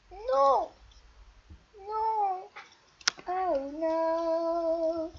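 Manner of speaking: loud, high shout of no; loud despairing cry; anguished no. Real, not acted. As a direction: yell no in despair. Caught in the game.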